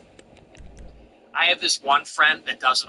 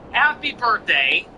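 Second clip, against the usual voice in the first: mock birthday wish; 4 semitones higher than usual. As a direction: deliver a fake-sweet birthday message. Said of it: "just this once".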